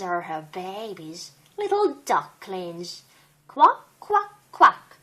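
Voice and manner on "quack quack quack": high, loud quacking duck. Acted. Reading a picture book aloud, a loud high duck quack. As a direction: quack away like a busy duck. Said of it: "says the duck".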